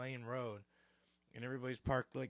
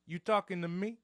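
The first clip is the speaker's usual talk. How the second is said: loud, higher mock-mobster challenge; goomba mode; 4 semitones higher, 6 dB louder than usual. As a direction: act offended like a TV wiseguy. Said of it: "I went full Goomba mode".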